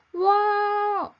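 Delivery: high, loud wow of astonishment; amazed shout. A narrator's reading. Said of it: "shouted Steve".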